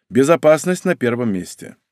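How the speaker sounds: ordinary delivery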